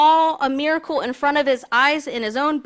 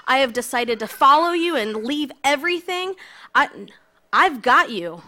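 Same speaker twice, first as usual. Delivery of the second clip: louder, earnest pledge of loyalty; imagined Peter's vow; 3 semitones higher, 4 dB louder than usual. Pretend. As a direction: swear it with fervent conviction. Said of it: "I would have loved to see the scripture of, of Peter going".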